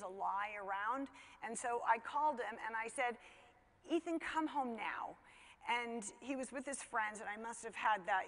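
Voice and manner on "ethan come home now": slow, higher-pitched warpath mom. Retold or imitated. Mother phoning her son out with friends, on the warpath. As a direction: retell a stern mom's slow, measured order. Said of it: "moms on the warpath sound in my voice".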